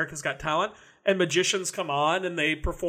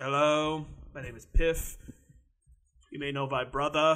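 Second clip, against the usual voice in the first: put-on dry British accent; 2 semitones lower than usual. Describing a comedian magician to another speaker, Piff the Magic Dragon impression, British accent. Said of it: "He sounds like he's British".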